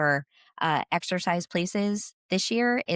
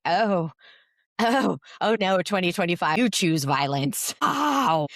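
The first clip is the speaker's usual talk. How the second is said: mock dismay. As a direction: act out getting clobbered by the year. Acts out being hit by 2025.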